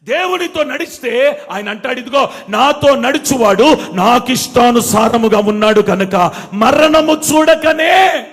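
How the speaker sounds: loud, rising preacher's proclamation; full-force preaching. Acted. Preacher quoting God to the congregation, full-force preaching. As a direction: proclaim it, stretching the last phrase.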